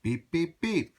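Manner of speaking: triumphant little-truck beep; happy beeping. Acted. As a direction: toot joyfully to finish. Blue's happy ending beeps.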